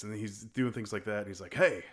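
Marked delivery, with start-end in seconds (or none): 1.5-1.8 low, soft creepy invitation; quiet proposition. Retold or imitated. Bijou asks Bobby to dance, quiet proposition. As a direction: imitate a quietly unnerving come-on.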